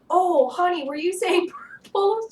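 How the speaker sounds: high, loud cooing dad voice; sweet dad voice. Retold or imitated. Dad asks his daughter, high sugary coo. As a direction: coo to a toddler. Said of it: "he was like".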